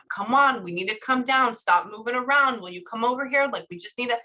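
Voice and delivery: mildly impatient nagging; a touch of a fussing mom; imitated nagging. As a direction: run the requests together, lightly pestering. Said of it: "but is nagging him".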